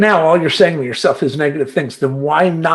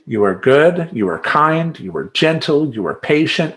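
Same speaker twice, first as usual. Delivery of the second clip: cheerful mantra; 2 semitones higher than usual. Shown as a demonstration. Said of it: "that's my little mantra".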